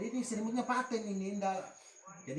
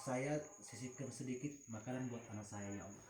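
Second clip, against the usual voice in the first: softer, lower murmured prayer; demo prayer; 8 semitones lower, 11 dB quieter than usual. Shown as a demonstration. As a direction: show the mother how to pray quietly. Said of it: "ada caranya, Ibu".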